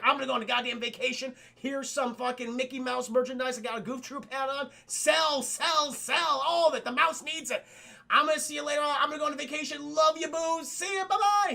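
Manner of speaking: high, loud, gleeful patter climbing to a shout; mock manic glee. Freed genie heads off on vacation, mock manic glee. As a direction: build to a high shouted farewell.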